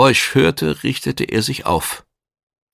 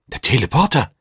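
incredulous question, raised pitch; ungläubig; 4 semitones higher, faster than usual. A narrator's reading. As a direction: ask as if you can hardly believe it. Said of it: "fragte Dutch Shag ungläubig". (ungläubig staunend)

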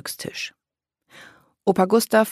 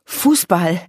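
high, louder "Fußball", called out sharply; stern correction; 4 semitones higher, 6 dB louder than usual. A narrator's reading. Silvania sternly correcting Daka's slip, called out. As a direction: correct her firmly on "Fußball". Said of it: "rief Silvania und sah Daka streng an".

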